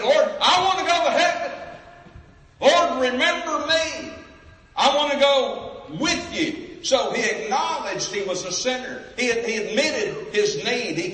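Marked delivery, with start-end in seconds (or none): 0.0-6.8 a high, loud, pleading cry to the Lord. Acted. Preacher voicing the dying thief begging Jesus, crying out. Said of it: "He's crying, he said".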